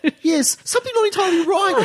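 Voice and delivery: mock the prize blurb with a sugary condescending voice; patronising mock voice. Co-host mocking the Pulitzer blurb, high laughing parody. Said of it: "oddly patronising pat on the head".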